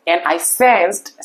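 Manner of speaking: ধীরে, টেনে টেনে কবিতার লাইন পড়া; প্রতিটি শব্দ আলাদা করে ধীরে আবৃত্তি; কবিতা পড়া. Shown as a demonstration. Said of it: "এরপরে দেখো". (ছাত্রদের জন্য ধীরে কবিতার লাইন আবৃত্তি)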